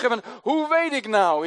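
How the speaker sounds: normal talking voice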